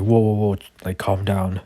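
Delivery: loud startled guard backing off; alarmed whoa. Retold or imitated. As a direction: raise the voice to calm a man with a gun.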